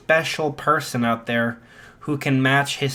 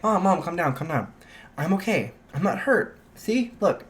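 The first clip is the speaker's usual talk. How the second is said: softly urging calm; gently reassure, slightly higher and softer; reassuring son; 4 semitones higher, 3 dB quieter than usual. Acted. Son calming his startled mom, reassuring.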